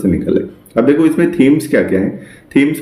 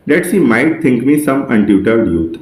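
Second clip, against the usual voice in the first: slow poem recital; much slower than usual. Shown as a demonstration. Teacher reading a Shakespeare sonnet line to students, very slowly. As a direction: read the verse very slowly, word by word.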